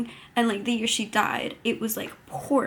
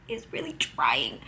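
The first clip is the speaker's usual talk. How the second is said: whisper; 6 semitones higher, 3 dB quieter than usual. Real, not acted. Tender comment on the hero.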